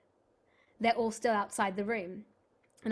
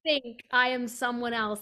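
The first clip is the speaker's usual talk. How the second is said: laughing through words; 3 dB louder than usual. Real, not acted. Laughing retelling own embarrassment.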